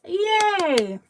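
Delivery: excited, talking through a mouthful; cheerful greeting with a mouth full. Real, not acted. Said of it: "talking with my mouth full of cheese".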